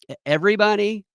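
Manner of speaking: incredulous. Retold or imitated. Incredulous question.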